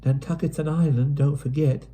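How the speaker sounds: tired, fed up with the island; mild drearily voiced girl; dreary sigh. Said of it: "Pen sighed drearily".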